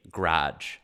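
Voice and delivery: "garage" in one syllable, GRAHJ; Midwest pronunciation. Shown as a demonstration. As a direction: drop the first a from "garage". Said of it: "take the A out".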